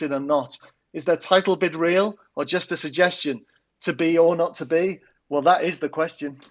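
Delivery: comic football poem declaimed with gusto; poem recital. Acted. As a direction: perform the rhyming poem like a bard on stage. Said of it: "what have you got for us this week".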